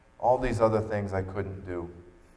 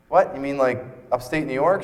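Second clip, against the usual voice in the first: incredulous; 5 semitones higher, 5 dB louder than usual. Retold or imitated. John hears the Erie Canal plan.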